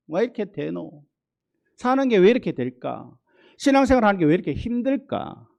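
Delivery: rising, whining Gyeongsang complaint; Gyeongsang dialect. Retold or imitated. A tired believer whines in Gyeongsang dialect. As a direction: moan about life in Gyeongsang dialect. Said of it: "경상도 말로".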